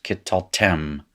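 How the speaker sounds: kittaltem with a short reduced first vowel, accent on the final tem; pronunciation demo. Shown as a demonstration. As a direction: model kittaltem, leaning on the last syllable. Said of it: "that is pronounced".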